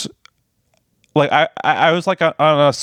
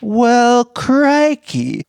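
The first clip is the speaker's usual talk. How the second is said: hammed-up Australian accent, pitched way up; 9 semitones higher, much slower than usual. Dared by her co-host to drop the Australian accent, mock Aussie. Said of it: "drop the accent right now".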